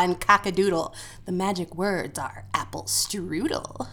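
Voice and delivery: hushed secret witch words; witch whisper. Pretend. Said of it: "done in a witch voice".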